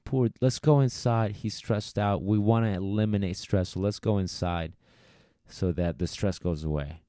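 mock coddling. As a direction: fuss over the poor dog like an overprotective owner. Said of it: "very easy to go".

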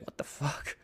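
breathy whispered what the fuck; whispered disbelief. Retold or imitated. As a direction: mutter it under your breath, stunned. Man angry over cigarettes.

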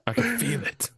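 high exasperated therapist voice; fed-up shrink groaning; angry boss. Pretend. Mock therapist scolding.

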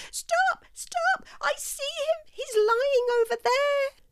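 a mouse spotting her brother; tiny mouse yelling. A narrator's reading. Mouse crying out to Archie to stop, squeaky.

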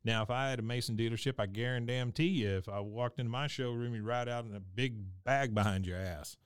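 lightly imitated fast-talking salesman; quick patter, a hint of a salesman; salesman going off. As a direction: rattle off a sales spiel, slightly under your breath. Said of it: "going off".

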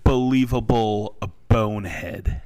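breathy whispered insult. Real, not acted. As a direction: hiss it under your breath. Muttered insult at co-host.

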